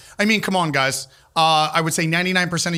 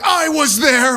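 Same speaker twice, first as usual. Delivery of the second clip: high, louder mock guest voice; imitated guest; 10 semitones higher, 6 dB louder, much slower than usual. Guest later claims to have been there, high mocking imitation. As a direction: chime in as an indignant-sounding guest, pitched up.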